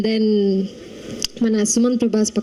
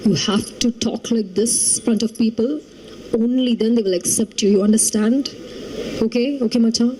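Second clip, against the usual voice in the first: imitating serious Subhash. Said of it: "Whenever he's explaining something very serious, he'll be like".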